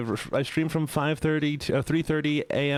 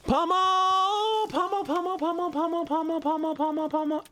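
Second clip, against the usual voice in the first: excited high greeting. Real, not acted. Greeting a friend in chat.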